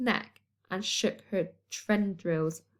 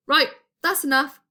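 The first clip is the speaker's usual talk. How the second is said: louder, higher stern bark; 5 semitones higher, 6 dB louder than usual. A narrator's reading. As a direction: bark it like a cross granny. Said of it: "she barked".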